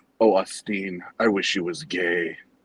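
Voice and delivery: imitated heavy Colombian accent. Quoting a former employee from Colombia: imitating a thick Colombian accent. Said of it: "very still thick Colombian accent".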